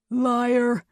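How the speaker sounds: high, loud accusation; angry snarl. A narrator's reading. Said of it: "he snarled".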